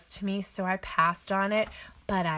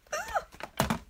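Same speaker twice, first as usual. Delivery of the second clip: delighted squeal. Real, not acted. Gushing over her cards.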